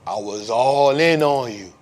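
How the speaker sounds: slow, drawn-out buddy voice, a hint of bravado; lightly voiced friend bragging slowly; imitating his friend. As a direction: drag it out proudly like the friend. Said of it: "He be like".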